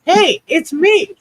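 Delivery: high, slow squeaky crayon character; talking crayon. Pretend. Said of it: "I'm like, "Hold on, wait".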